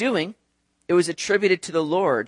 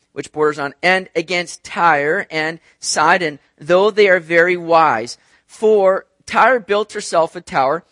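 measured, slightly louder reading of scripture; 4 dB louder than usual. Acted. Preacher reads Zechariah aloud to the congregation. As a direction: read the verses with weight.

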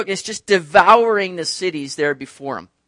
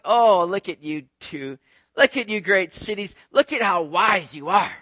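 sarcastic mockery. Preacher mocks the wise cities with light sarcasm. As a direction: lightly tease the proud cities. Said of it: "it's a bit of sarcasm here".

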